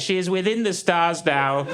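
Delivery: mock poetic. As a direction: intone it as overblown poetry. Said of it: "Some tried to get poetic".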